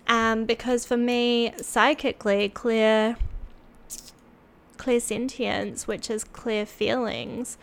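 speaking through a head cold; blocked nose, a bit congested; stuffy nose. Real, not acted. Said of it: "so I sound a bit stuffy".

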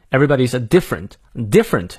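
"different" given clear emphasis; stress on DIFFERENT. Shown as a demonstration. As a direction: lean on "different" as the key word. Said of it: "different要重读".

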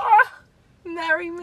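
a high, loud "Ah" melting into a sigh; swooning. Retold or imitated. To an English boy saying sweetheart, a mock swoon. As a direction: gush as if instantly smitten. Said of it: "I'm like".

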